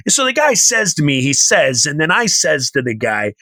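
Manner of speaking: a hint of dad's storytelling voice; dad telling a story. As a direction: mimic an old-timer launching into his tale. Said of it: "That's how my dad talks".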